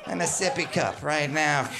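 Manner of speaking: put-on high, drawn-out toddler wail; toddler tantrum cry. Comic acting out his wish to cry like a baby, high mock-tantrum wail. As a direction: bawl out demands like a cranky toddler. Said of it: "be able to just cry".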